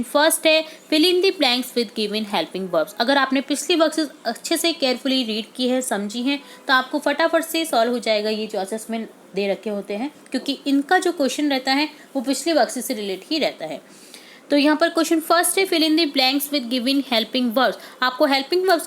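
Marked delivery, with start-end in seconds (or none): 0.9-2.9 very slow, deliberate question reading; slow instruction read. Shown as a demonstration. Teacher reading the assessment question to pupils. 15.7-17.7 very slow, deliberate question reading; slow instruction read. Shown as a demonstration. Teacher reading the assessment question to pupils.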